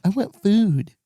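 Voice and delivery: put-on high kid voice, falling at the end; demanding child. Parent imitating daughter wanting food, demanding child voice.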